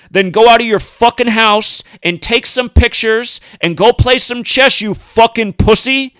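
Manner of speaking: furious tirade at a rich host; angry rant. Real, not acted. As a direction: lay into him, voice up. Ranting insults at Stern.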